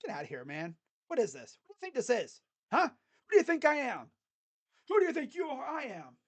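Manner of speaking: blocker voiced, lightly hammed-up taunting; mock trash talk. Fan voicing Allen taunting after the block, mock swagger. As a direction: taunt the shooter like the blocker did. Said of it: "Gave that look like".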